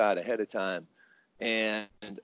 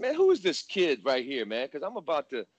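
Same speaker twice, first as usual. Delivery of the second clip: fired-up threat; 3 dB louder than usual. Retold or imitated. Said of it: "I said it like that".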